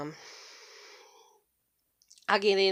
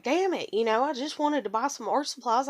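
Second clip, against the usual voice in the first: a touch of frustrated griping; retold complaining; 3 semitones higher than usual. Mother venting to her daughter about art supplies, complaining. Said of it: "kinda complaining to my daughter".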